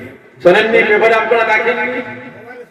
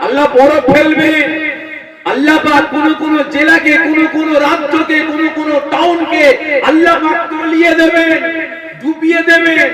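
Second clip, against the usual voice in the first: preaching shout; 5 semitones higher than usual. Real, not acted. Preacher warning of God's punishment.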